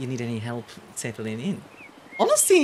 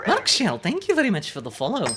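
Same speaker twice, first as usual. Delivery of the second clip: attempted Scottish accent. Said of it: "trying to do a Scottish accent".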